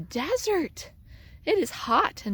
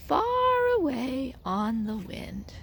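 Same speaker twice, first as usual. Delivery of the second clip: whisper; 3 semitones higher than usual. A narrator's reading. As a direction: let the words float away. Seeds drift off, story fades.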